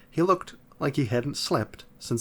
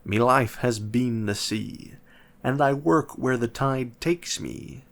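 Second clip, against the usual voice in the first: put-on gruff pirate accent. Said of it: "spoke with a gruff accent".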